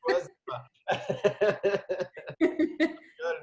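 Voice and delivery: voix qui monte très haut dans un fou rire; éclat de rire. Real, not acted. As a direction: rire aigu et fort en avouant la blague. L'animateur plaisante sur l'Alsace. (l'animateur taquine l'invitée sur l'Alsace et éclate de rire)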